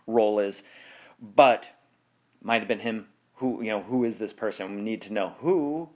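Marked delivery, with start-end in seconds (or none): 5.4-5.9 a hint of a bad Seinfeld; lightly voiced Seinfeld bit, only a little higher; Seinfeld impression. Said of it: "It's a really bad Seinfeld impersonation".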